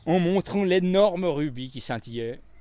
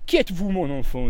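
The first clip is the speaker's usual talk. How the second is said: gently asked; 3 semitones higher, 5 dB louder than usual. A narrator's reading. Poirot gently asking the little maid her name. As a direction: ask gently to put her at ease. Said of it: "demanda gentiment Poirot".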